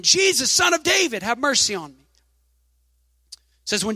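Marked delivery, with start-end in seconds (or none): 0.0-2.0 high mock cry for mercy, pitch raised; retold shout. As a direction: call out to Jesus like a pleading beggar. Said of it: "he yells out again".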